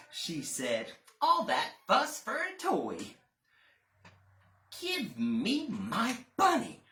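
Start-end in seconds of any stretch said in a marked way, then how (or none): 1.2-3.0 high, louder exasperated nanny. Acted. Nanny scolds. 4.8-6.8 put-on pleading child. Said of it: "cried the boy".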